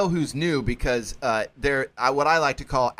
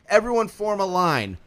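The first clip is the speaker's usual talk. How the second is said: loud, higher, hammed-up guard yelling confusing orders; mock guard barking orders; 6 semitones higher, 6 dB louder than usual. Mocking a guard yelling orders at new inmates, loud and high. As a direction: bark contradictory line orders like a jail guard.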